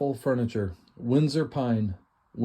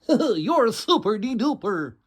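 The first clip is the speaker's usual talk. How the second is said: higher, slow slurred cartoon drunk voice; Barney; 9 semitones higher, 4 dB louder, slower than usual. Host trying another cartoon voice, slow and high. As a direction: drawl it like a sloppy cartoon barfly. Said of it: "Or Barney".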